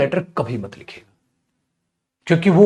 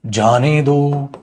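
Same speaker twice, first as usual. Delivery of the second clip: "जाने दो" stretched slowly, set apart after a long pause; separate slow phrase; 3 semitones lower, much slower than usual. Shown as a demonstration. Teacher showing the comma's effect, slow "जाने दो" standing alone after the break. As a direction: draw out "जाने दो" on its own. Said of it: "रुकने के लिए ही तो comma होता है".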